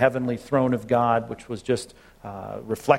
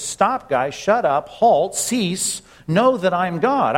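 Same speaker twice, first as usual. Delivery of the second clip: frustrated God; 4 semitones higher, much slower than usual. Retold or imitated. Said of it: "God is frustrated".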